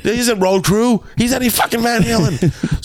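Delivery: high, escalating frantic protest; exasperated ranting. Retold or imitated. Caterer arguing with crew over a spoon, worked up and high-pitched. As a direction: build from agitated to a shrieking rant.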